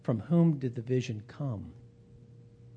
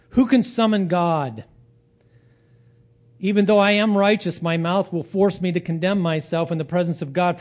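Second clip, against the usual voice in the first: raised, impassioned plea; crying out; 5 semitones higher, 6 dB louder than usual. Retold or imitated. Job appeals to an unreachable God, crying out. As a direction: cry out in protest, higher and louder. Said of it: "then Job cries out and says".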